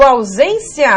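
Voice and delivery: "ausência" pronounced carefully, with an I glide before the final A; I glide before vowel. Shown as a demonstration. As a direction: stretch "ausência" to show the I before A. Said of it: "o I antes da vogal". ("ausência" destacando o I antes da vogal)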